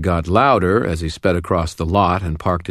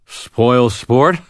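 slurred and sloppy, pitched up; drunk slurring; 6 semitones higher, 5 dB louder than usual. A narrator's reading. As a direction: slur it like you've had too much scotch. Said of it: "Thomas slurred".

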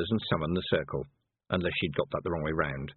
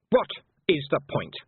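higher-pitched exasperated appeal in one run; 8 semitones higher, 4 dB louder than usual. A narrator's reading. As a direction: appeal to the world at large, exasperated. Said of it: "said Anagramma to the world in general".

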